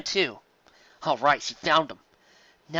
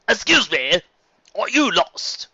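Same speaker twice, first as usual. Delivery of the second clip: lightly voiced friendly unicorn, a bit higher; friendly stallion; 7 semitones higher, 6 dB louder, much slower than usual. Tour guide greets a lost pony, lightly voiced and friendly. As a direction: offer help like a polite tour guide.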